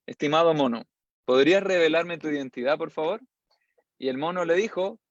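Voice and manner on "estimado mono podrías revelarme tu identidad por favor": polite. Retold or imitated. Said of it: "cambió completamente su, su tono".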